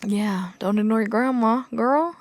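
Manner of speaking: a playful whisper to the heroine; whispered aside. Real, not acted. Vlogger whispering advice to the book's heroine, hushed.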